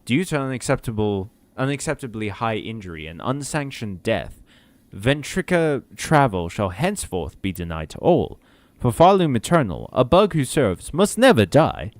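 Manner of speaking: measured corporate voiceover read. Acted. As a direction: read it like a company announcement. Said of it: "My corporate voiceover voice".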